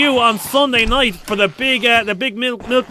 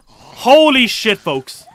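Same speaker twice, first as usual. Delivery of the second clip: drawn-out holy shit; much slower than usual. Real, not acted.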